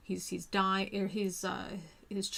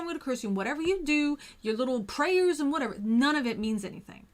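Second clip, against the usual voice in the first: higher, louder hammed-up divine rant; mock furious god; 5 semitones higher, 5 dB louder, faster than usual. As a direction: play an outraged god telling a mortal off. God scolds Job in story.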